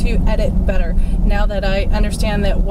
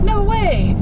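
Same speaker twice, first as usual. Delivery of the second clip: high, amazed no way; a kid who can't believe it; surprised disbelief; 11 semitones higher than usual. Retold or imitated. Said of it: "and he goes".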